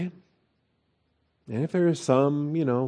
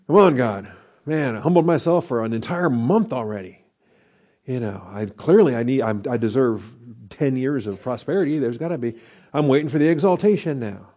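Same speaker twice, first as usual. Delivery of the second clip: impatient complaint to God. Retold or imitated. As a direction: whine at God like a spoiled believer who wants his reward. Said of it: "shake our fist at God and say".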